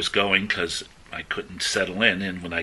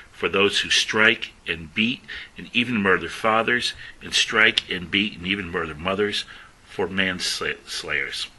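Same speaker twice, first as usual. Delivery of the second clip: emphatic scripture reading. Acted. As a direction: declaim each list item.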